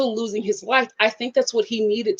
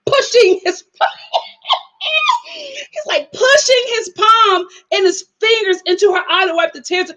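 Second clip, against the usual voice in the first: higher, half-laughed description; laughing; 8 semitones higher than usual. Real, not acted. Vlogger laughing about the palm pushed into her eye. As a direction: giggle through the whole line.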